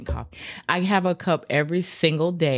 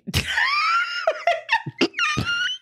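shrieking laugh. Real, not acted. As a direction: scream with laughter. Loud laugh at John.

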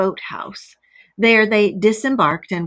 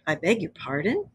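slow, dry; 7 dB quieter than usual. A narrator's reading. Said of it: "said the Rat slowly".

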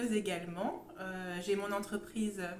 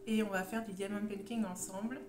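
sore throat voice. Real, not acted. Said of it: "j'ai mal à la gorge".

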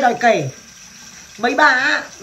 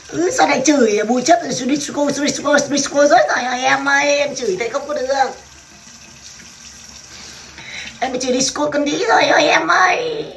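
higher, hammed-up lament; mock wailing; 4 semitones higher than usual. Lamenting to viewers, mock crying over being cursed. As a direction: wail it like a mock mourner.

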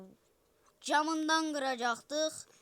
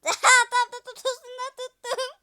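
laughing triumph; 9 semitones higher, 11 dB louder than usual. Real, not acted.

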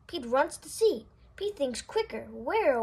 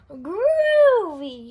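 excited cry; 7 dB louder than usual. Acted. Pete excited at spotting Gus.

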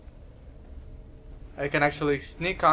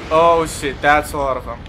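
alarmed loud; 7 dB louder than usual. Real, not acted. Sees crowd of enemies.

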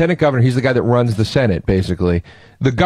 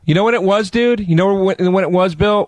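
excited teasing; 7 semitones higher than usual. Real, not acted. Teasing friend with quiz question.

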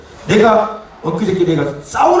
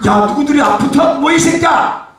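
high, raised-voice telling-off; angry scolding; 6 semitones higher than usual. Real, not acted. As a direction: snap at the crew from the stage. Scolding the crew from the stage. (버럭 화내는 꾸중)

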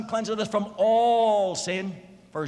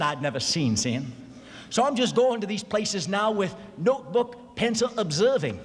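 put-on Texan accent; 2 semitones lower than usual. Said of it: "Baptist Sunday school teacher myself down yonder".

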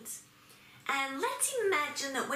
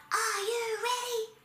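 high, drawn-out rallying call; 9 semitones higher, slower than usual. Shown as a demonstration. Teacher calling to everybody before song, high call-out. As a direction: sing out the question slowly to the group, pitched up. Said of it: "Everybody call out".

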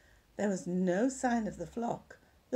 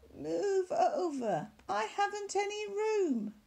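grumpy sheep; 10 semitones higher than usual. Acted. Sheep squabbling at bedtime.

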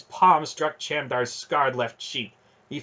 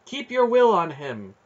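high, loud, insistent order; urgent command; 7 semitones higher, 6 dB louder than usual. A narrator's reading. Aunt's voice urging the boy to hold, insistent. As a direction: press him to hold firm.

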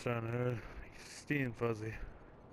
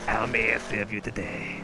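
louder fawning servant; 7 dB louder than usual. Pretend. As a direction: play the eager butler. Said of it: "should I use a servant voice".

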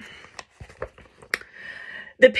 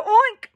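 attempted oink; 10 semitones higher, 4 dB louder than usual. Pig tries to oink.

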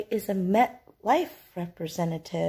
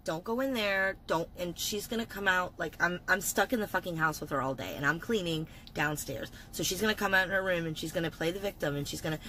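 hushed so the roommate won't hear; 2 semitones lower, 7 dB quieter than usual. Real, not acted. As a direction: keep it down, she's in the next room. Hiding from roommate inside house.

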